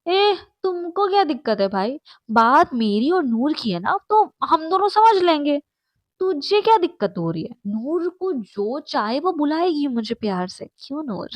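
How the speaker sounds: glaring, combative comeback; confrontational. Acted. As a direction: push back at the jealous friend. Rival glares and confronts Nayab.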